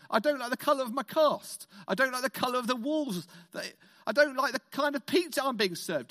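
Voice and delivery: complaining puppet. Retold or imitated. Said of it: "Hubert complaining".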